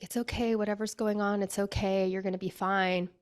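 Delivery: gently retold reassurance; consoling. Friend cradling a crying woman in her lap, consoling. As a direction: soothe someone who is crying, lightly acted. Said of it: "she's just trying to console me".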